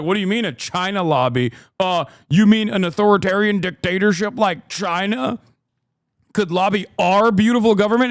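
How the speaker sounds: high, mock-innocent disbelief; a lightly voiced naive American. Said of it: "with a fucking straight face and be like".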